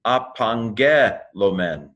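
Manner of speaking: "Apangelomen" slowly as "ap-an-GE-lo-men"; slow pronunciation demo. Shown as a demonstration. Teacher pronounces it for learners, "Apangelomen" slow by syllable. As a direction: sound out "Apangelomen", leaning on GE. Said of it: "let me pronounce it".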